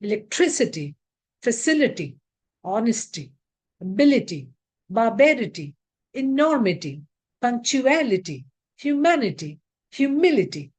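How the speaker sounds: Electricity, facility, humility, each stressed just before -ity. Shown as a demonstration. Teacher drilling -ity words, stress before the ending. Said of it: "the stress will be on the syllable before I T Y".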